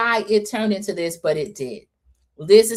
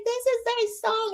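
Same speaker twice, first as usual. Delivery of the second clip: much higher, slow gushing line; swooning excitement; 5 dB quieter than usual. Retold or imitated. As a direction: gush over the song. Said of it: "She's like".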